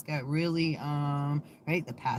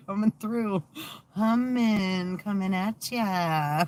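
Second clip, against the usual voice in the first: high, sing-song taunting spirit; teasing jinn voice; 4 semitones higher, 3 dB louder, slower than usual. Pretend. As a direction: tease like a mischievous spirit. Voicing a spirit taking over.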